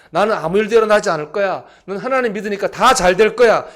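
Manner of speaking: loud, high, emphatic self-talk; overconfident declaration. Acted. Preacher voicing a believer expecting no trouble, overconfident declaration. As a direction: proclaim it like a sure thing. Voices the wrong mindset, emphatic.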